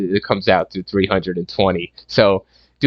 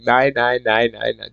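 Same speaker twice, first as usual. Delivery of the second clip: mock German "nein"; 2 semitones higher than usual. Reviewer acts out watching Eli Roth with the bat, mock "nein" protest. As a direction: chant "nine" like a dismayed German. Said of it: "Just like that".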